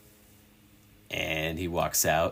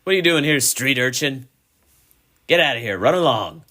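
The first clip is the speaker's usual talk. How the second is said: louder and higher, shooing scornfully; rude lad shouting; 7 semitones higher, 6 dB louder, faster than usual. Acted. Young lad to Chubbs, loud scornful shooing. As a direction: chase the urchin off. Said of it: "he's like".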